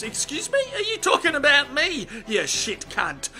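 mock-offended retort. Mongoose retorts, offended lion.

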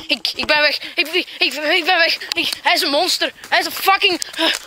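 breathless, stumbling over the words; panicked stammer. Acted. Victim fleeing a monster, panicked stammer. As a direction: stutter as if desperate to flee.

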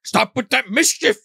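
high, slow, whining scold; grandpa's catchphrase. Retold or imitated. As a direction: drag it out like a pleading old man. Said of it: "He keeps saying that".

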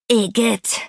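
mildly disgusted complaint; a touch of yuck, grumbled; complaining. A narrator's reading. Iggy is covered in ketchup, complaining. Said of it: "beschwerte sich dagegen Iggy".

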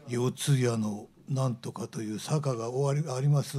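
slow kōdan storyteller in Kansai intonation; not-so-scary Kansai ghost-story narration; Kansai-dialect ghost story. Shown as a demonstration. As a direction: draw out a mock-scary tale in Kansai lilt. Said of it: "それを関西弁でやると全然怖くない".

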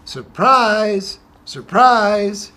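high, loud, gleeful cry of surprise; story-time surprise shout; excited surprise. Acted. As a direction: burst out with it for the kids. Reading picture book to children.

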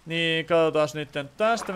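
ordinary delivery

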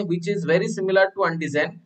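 very similar drawn out slowly; slow, deliberate stress on the likeness; slow emphasis. Shown as a demonstration. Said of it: "ये antibody क्या करता है?".

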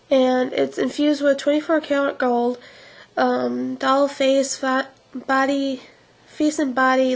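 speaking through fingers; hand over mouth. Real, not acted. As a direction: lips partly covered by hand. Seen 0: Hand holding tube presses fingers across lips throughout the labelled words.

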